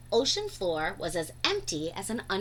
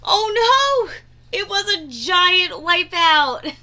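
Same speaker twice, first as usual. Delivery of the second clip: excited dismay; 6 semitones higher, 8 dB louder, slower than usual. A narrator's reading. Wave crashes, class wiped out.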